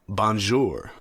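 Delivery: put-on bonjour in an amateur French accent; slow, clumsy attempt at a French accent; bad French accent. Podcast host gives listeners the answer hashtag, bad French accent. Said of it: "a terrible French accent".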